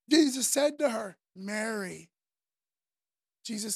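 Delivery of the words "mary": tender, understated calling of a name; meaningful name-call. Acted. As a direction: gently say the name, a little lower. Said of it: "just the way he said the name".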